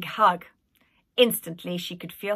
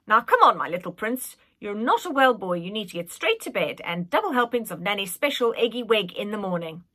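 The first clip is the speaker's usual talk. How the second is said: put-on old nanny voice. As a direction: cluck over him like a nanny. Nanny sending him to bed.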